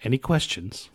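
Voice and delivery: lightly acted mission briefing voice; brief the troops, lightly in role; movie military briefing. Roadie briefing crew on machine guns, lightly acted military instructor.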